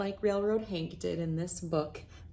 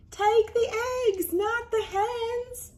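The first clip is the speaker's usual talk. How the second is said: high urgent call; slower than usual. Acted. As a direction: call after him urgently. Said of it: "yelled Missy May".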